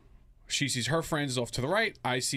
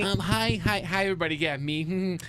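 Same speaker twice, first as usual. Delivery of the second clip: high, loud, hammed-up plea for attention; mock whiny wimp; 7 semitones higher, 6 dB louder than usual. Forgotten date announcing himself to the group, mock whiny wimp. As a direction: play a needy wimp waving hello to everyone. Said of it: "like a little bitch and be like".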